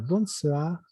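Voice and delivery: bonsoir with the final R barely there; very soft R. Shown as a demonstration. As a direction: let the R of bonsoir fade to almost nothing. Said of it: "La R se pronuncia muy suavito". (bonsoir con la R muy suavita)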